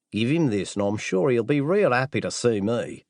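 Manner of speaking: Australian caller talking casually; strong Australian accent. Acted. Assassin handing over a box, Australian accent. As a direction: keep the Aussie accent going. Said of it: "in a strong Australian accent".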